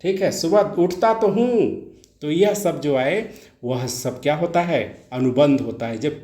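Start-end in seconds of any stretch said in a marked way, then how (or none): 0.3-1.6 तो said higher with weight; emphatic तो. Shown as a demonstration. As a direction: insist on तो. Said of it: "तो" का मतलब है जोर देके".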